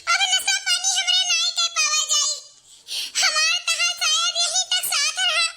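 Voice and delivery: high, half-laughing hammed-up wail; mock wailing lament. Wife wails to her lover that her husband is returning, hammed-up mock wail. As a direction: wail as if the world is ending, but play it for laughs.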